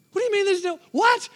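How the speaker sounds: stunned, climbing disbelief. Retold or imitated. Husband hearing of the extra money, high baffled disbelief.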